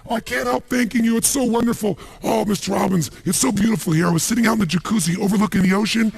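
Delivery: high, gushing mock maid voice; imitating the maid. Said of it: "she's back at home in the castle going".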